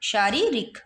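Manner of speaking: शारीरिक split as shaa-ree, rik; शारीरिक with long ee, then short i; long middle vowel. Shown as a demonstration. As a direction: hold the री of शारीरिक, keep रिक short. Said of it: "री पे बड़ी मात्रा और इधर रिक".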